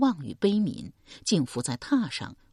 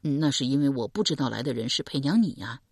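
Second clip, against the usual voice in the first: a lightly lowered calm man; man's voice Deng Yi; 3 semitones lower, faster than usual. Acted. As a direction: speak as a steady young man.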